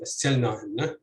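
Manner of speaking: استلناهن stressed on the heavy syllable after the glottal-stop opening. Shown as a demonstration. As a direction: hit the heavy syllable following the first in استلناهن. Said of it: "So you'd have stress on".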